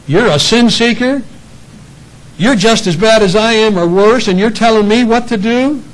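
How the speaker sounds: high, loud, offended comeback; indignant retort. Acted. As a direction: bristle back at the one warning you. Offended person's retort acted.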